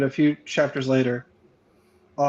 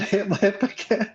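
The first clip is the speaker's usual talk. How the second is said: 1 mock mispronunciation; 5 semitones higher, slower than usual.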